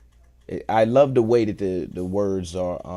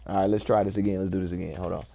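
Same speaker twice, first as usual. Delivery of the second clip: normal talking voice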